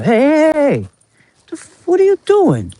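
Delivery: sharp high shout of alarm; yelling. Real, not acted. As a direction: call out loud to stop them. Yelling at someone near the dumpster.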